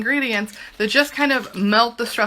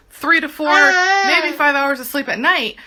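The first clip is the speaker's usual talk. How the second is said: holding back real crying; teary; 5 semitones higher, 4 dB louder than usual. Real, not acted. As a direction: voice wobbling with tears. Emotional about little sleep.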